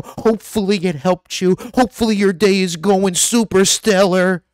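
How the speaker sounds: mock saccharine sign-off; fake sweet. Parodying fake-nice YouTuber sign-off to viewers, mock sweet. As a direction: put on a sugary, insincere niceness. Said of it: "Fake, not genuine".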